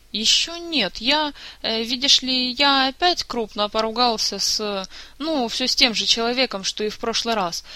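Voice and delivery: lightly voiced guilty young bard; sheepish bard. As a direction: confess with embarrassed little hesitations. Bard sheepishly confesses his quarrel.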